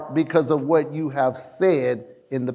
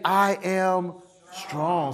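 slow, soft and certain; firm declaration; 6 dB quieter, much slower than usual. Shown as a demonstration. Preacher showing the right confession, slow and firm. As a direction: declare it with quiet conviction. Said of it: "No, let the weak say".

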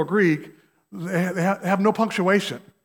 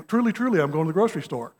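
mock solemn announcement; faster than usual. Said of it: "to your wife and say".

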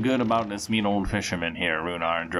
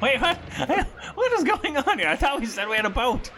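disbelieving wait what; surprised; 13 semitones higher than usual. Real, not acted. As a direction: blurt out in confusion. Surprised outburst at insecure boat.

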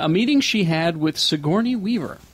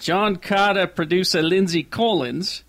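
New Zealand accent; 2 semitones higher, slower than usual. Shown as a demonstration. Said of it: "say it with a New Zealand accent".

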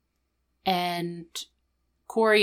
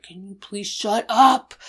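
mock yell; 2 semitones higher, 5 dB louder than usual. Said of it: "yelling at him".

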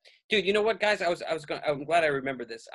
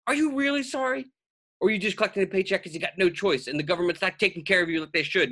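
mock sarcastic challenge; 6 semitones higher than usual. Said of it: "And I was like".

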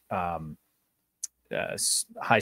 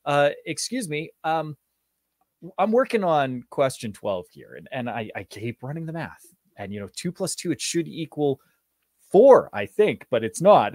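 higher, hesitant student asking; timid student; 6 semitones higher, 3 dB louder than usual. Retold or imitated. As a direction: nervously point out the error. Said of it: "They'd be like".

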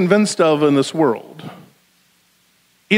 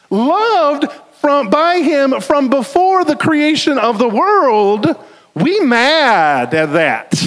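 heated preaching; 8 semitones higher, slower than usual. Real, not acted. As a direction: let the passion boil over at the crowd. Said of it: "I'm getting heated up here".

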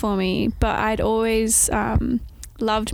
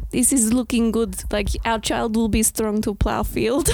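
put-on Russian accent. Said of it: "I just always do Russian".

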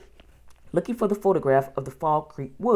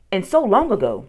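higher-pitched, amazed questioning; baffled wonder; 3 semitones higher, 5 dB louder than usual. A narrator's reading. Boy questions sister about the magic trip, baffled wonder. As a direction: puzzle it out in disbelief.

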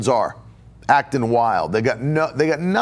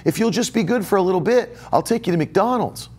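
put-on higher, sing-song bribe to a child; mock bribing parent; 4 semitones higher than usual. Parent bribing a child with a toy, mock coaxing. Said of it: "I hear parents parent like that".

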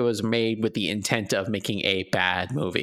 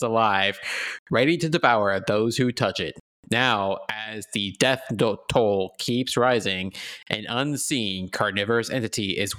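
movie announcer voice. Acted. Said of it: "Get my movie announcer voice going on here".

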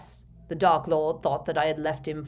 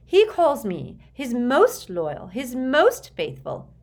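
high, slow, emphatic boast; louder, impassioned and drawn-out; fired up; 8 semitones higher, 8 dB louder, slower than usual. A narrator's reading. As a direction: insist with heated pride. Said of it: "firing up at once".

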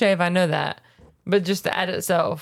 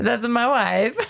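mock Borat-ish accent; 3 semitones higher, much slower than usual. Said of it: "with my white accent".

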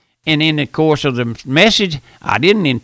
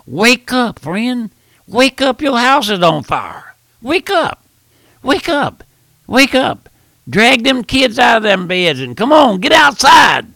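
higher, pressing cries of wake up; urgent wake-up call; 8 semitones higher than usual. Acted. Preacher urging his congregation to wake, higher urgent calls. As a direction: rouse the sleepers like the house is burning.

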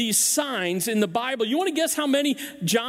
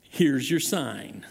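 slow, drawn-out punchline; deadpan Here's your sign, slow; Engvall catchphrase; 8 semitones lower, slower than usual. Retold or imitated. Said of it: "that line was".

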